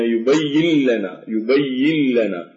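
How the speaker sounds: يبين لنا with the nun fully absorbed into a doubled lam, no ghunna, slow; full merge, no nasal. Shown as a demonstration. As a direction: say يبين لنا as yubayyillana, slowly. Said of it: "لا يوجد غنة".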